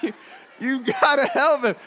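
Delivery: panicked mom. Retold or imitated. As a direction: imitate a helpless mother begging for help. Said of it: "She doesn't know what to do".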